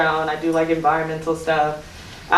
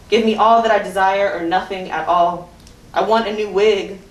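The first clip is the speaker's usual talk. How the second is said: emphatic spoken-word delivery; poem recitation; 2 semitones higher than usual. Acted. Poet warning those who wish harm, defiant recitation. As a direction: recite it defiantly in measured phrases.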